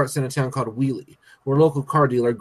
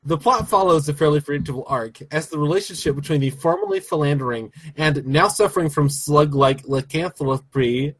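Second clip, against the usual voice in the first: syllable by syllable. Shown as a demonstration. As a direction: sound out each syllable deliberately. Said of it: "Syllable by syllable".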